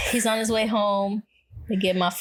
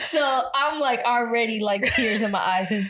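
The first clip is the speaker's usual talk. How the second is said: laughing while telling; 2 semitones higher than usual. Real, not acted.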